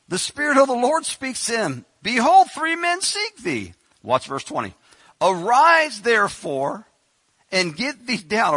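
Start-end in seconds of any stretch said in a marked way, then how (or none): 2.0-3.7 high, loud, slow proclamation; Spirit's proclamation. Acted. The Spirit announcing the visitors to Peter, proclaiming loudly. 5.2-8.5 loud, high divine command. Acted. Spirit commanding Peter to rise, loud.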